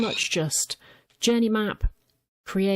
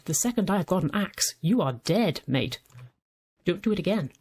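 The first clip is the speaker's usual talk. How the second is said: normal talking voice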